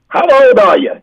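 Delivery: put-on high-pitched old man calling out; elderly man. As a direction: imitate an old man quizzing his wife. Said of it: "He goes".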